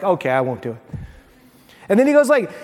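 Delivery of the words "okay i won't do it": lower, softer, meek giving in; meek husband. Retold or imitated. Husband gives in meekly to his wife, lower and softer. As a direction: sound like a chastened husband. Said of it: "And I'm like".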